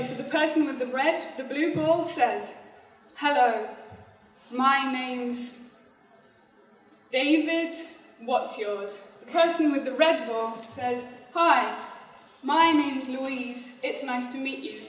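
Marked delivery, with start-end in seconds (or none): 0.0-9.0 slow, spaced-out instructions; deliberately slow. Shown as a demonstration. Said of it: "I'll say it slowly". 11.3-14.8 slow demo line, name drawn out; deliberately slow. Shown as a demonstration. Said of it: "I'll say it slowly".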